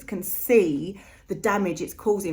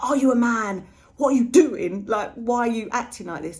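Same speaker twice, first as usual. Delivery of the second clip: higher, louder exasperated scolding, lightly acted; mock annoyed; 4 semitones higher, 5 dB louder than usual. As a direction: imitate an annoyed wife telling off her husband. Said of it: "how annoyed she is with him".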